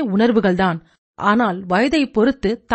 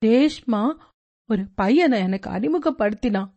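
mild sobbing. Acted. Teen daughter confessing to mother, mildly tearful. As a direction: confess it gently between sobs, understated. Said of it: "தேம்பி தேம்பி அழுது கொண்டே பூஜா".

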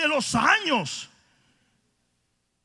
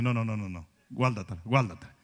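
much lower, deep booming angel; 13 semitones lower, 6 dB quieter, faster than usual. Retold or imitated. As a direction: voice the angel of the Lord refusing. Angel answering Joshua.

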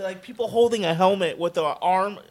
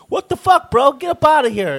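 much higher, louder mock yell; imitating angry vendor; 8 semitones higher, 5 dB louder than usual. Retelling the print seller chasing them off, mock angry yell. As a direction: bark it out like the offended vendor. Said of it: "'cause he was like".

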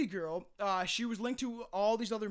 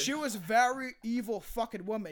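mock-British case narration; British accent attempt. Podcaster describing the killers, attempted British accent. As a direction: tell it in amateur put-on British. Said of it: "I don't know why I'm attempting this".

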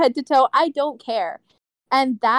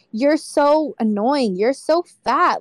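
drawn-out, mildly mocking criticism; mock scolding; slower than usual. Grandparents picking on their grandchild, mock scolding. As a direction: imitate a nagging elder, leaning on each slow word.

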